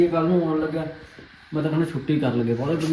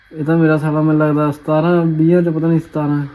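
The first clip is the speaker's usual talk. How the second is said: dramatic loud aunty; 8 dB louder than usual. Real, not acted. Mocking friend's marks loudly.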